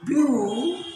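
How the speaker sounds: ब्यूटीफुल pulled apart as byoo, tee, ful; three separate syllables. Shown as a demonstration. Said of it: "तीन बार में हो रहा".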